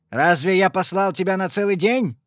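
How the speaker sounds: loud angry bark. Acted. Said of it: "рявкнул он". (отец рявкает на дочь)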